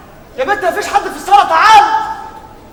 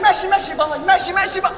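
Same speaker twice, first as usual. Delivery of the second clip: imitating girlfriend; 4 semitones higher, 3 dB quieter than usual. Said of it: "كل ما اكلمك".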